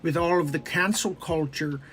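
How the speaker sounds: measured earnest professor voice; lightly voiced earnest professor; Jordan Peterson impression. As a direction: speak carefully like a lecturer. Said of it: "Hi, it's Jordan Peterson".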